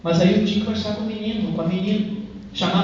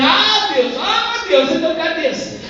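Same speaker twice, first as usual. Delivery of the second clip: raised, louder exasperated cry to God; exasperated exclamation; 5 semitones higher, 4 dB louder, slower than usual. Retold or imitated. Father telling the church how he nearly lost his temper, exasperated cry. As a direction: throw up your hands at God, exasperated.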